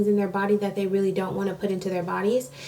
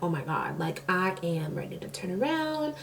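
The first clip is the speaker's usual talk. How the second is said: retold despair; 4 semitones lower, 10 dB quieter than usual. Retelling her dread at the doctor.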